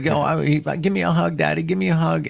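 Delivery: rough, scratchy, high, creaky cat voice. Retelling coming home to his cat on the counter: voicing his cat. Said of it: "He's like".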